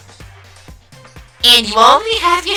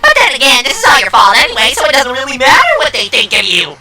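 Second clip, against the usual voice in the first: quick, higher-pitched dismissal; gloating taunt; 4 semitones higher than usual. Acted. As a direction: rub the blame in brightly and briskly. Villain taunts, blaming the listener.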